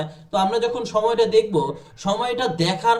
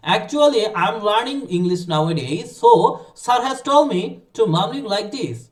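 rehearsed reply; 3 dB louder, much slower than usual. Shown as a demonstration. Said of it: "মুখস্থ করে রাখেন".

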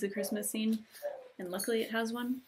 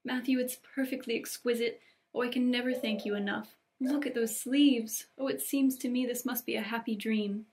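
overjoyed Anne; 3 semitones higher than usual. Acted. Anne thanks Matthew for the dress, mildly overjoyed. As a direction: gush gratefully, with mild wonder.

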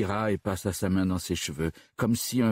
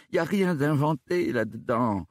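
higher-pitched anxious protest; panicked; 7 semitones higher than usual. A narrator's reading. Suspect denying he made up his alibi, panicked. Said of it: "paniqua Cormier".

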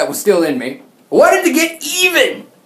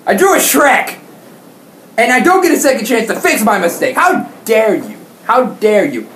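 mock indignation. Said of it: "I thought to myself".

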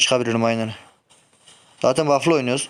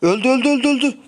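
excited shout; 11 semitones higher than usual. Real, not acted. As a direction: shout the kill out. Excited kill call. (heyecanlı, yüksek bağırış)

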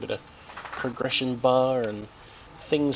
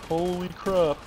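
surprised exclaim; 8 semitones higher, slower than usual. Real, not acted. Surprised by boss in game.

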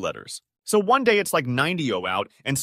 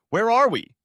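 high, loud baffled holler; high-pitched shouted question; calling back; 11 semitones higher, 5 dB louder than usual. A narrator's reading. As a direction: yell the question across the room. Distant friend calls back.

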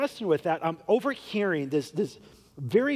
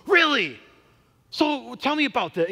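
high and loud really, then eager; big-guy stranger hearing he's a pastor, surprised; surprised interest; 5 semitones higher, 4 dB louder than usual. Retold or imitated. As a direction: sound caught off guard and curious.

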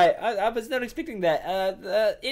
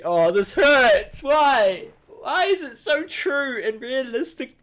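louder and slow, drawn-out pain; mock anguish; 5 semitones higher, 4 dB louder, slower than usual. Fan hurt by a too true meme, hammed-up wail. Meme hurts fan's feelings.

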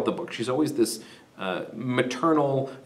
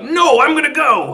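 higher, louder insistence; king overruling his wife, mock yell; stubborn mock shout; 13 semitones higher, 7 dB louder than usual. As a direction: brush her off, loud and high. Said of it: "Priam's like".

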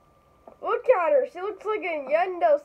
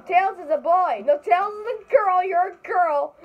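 heated playful insisting; 5 semitones higher, 5 dB louder than usual. Pretend. Playful argument over gender.

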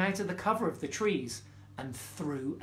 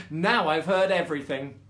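laughing; 5 dB louder than usual. Acted. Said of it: "with laughter".

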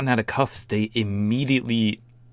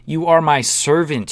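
entitled woman impression; 6 semitones higher, 5 dB louder than usual. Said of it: "When people are like".

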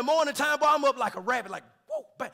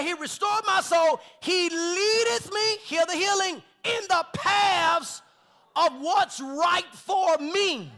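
slow, loud, higher fervent reading; preaching; 5 semitones higher, 4 dB louder, much slower than usual. Acted. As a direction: lift the verse up, stretching each word. Preacher reading the psalm with fervour.

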